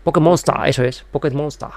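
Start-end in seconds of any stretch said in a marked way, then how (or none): 0.0-0.6 "Pokémon Monster" ending in an open -STA; Japanese-style pronunciation. Shown as a demonstration. Echoing the full name, "Monster" said Japanese-style as mon-STA. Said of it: "decirlo como lo dice un japonés". 1.1-1.7 "Pokémon Monster" ending in an open -STA; Japanese-style pronunciation. Shown as a demonstration. Echoing the full name, "Monster" said Japanese-style as mon-STA. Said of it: "decirlo como lo dice un japonés".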